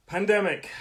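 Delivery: Pandemic said high and loud; big and loud. Shown as a demonstration. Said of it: "let's make that big".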